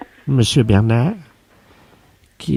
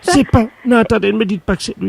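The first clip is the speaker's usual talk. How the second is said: stunned disbelief; 7 semitones higher than usual. Acted. Secretary learns who sent gift.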